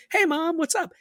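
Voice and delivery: high sing-song phone hello; mom on the phone, via parrot. Retold or imitated. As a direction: chirp it like the bird copying mom. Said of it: "She's like".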